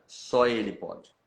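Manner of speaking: usual speaking voice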